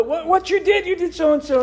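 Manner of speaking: mock exasperated. Pastor voicing the family, high and exasperated. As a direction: fire back the accusation in a high voice.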